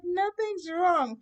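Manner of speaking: high, slow, hammed-up wail; boo-hooing. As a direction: deny it through loud mock sobs. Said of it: "I'm boo-hooing like".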